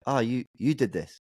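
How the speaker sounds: dry sarcastic thanks. Retold or imitated. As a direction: fake gratitude, deadpan. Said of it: "Just some sarcastic".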